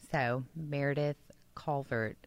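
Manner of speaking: unvoiced whispered suggestion. Real, not acted. Coworker slyly whispering a baby name suggestion, hushed. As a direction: breathe the name like a secret.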